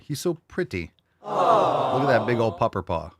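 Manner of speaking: high-pitched gushing over a dog; doting dog talk. Real, not acted. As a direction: coo at your big handsome dog.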